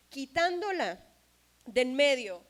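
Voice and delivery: loud ringing shout on the verse; shouted preaching. Real, not acted. Preacher booms the verse to the congregation. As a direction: proclaim it at full force. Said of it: "preaching climax".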